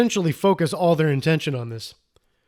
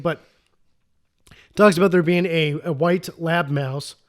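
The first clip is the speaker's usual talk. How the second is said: usual speaking voice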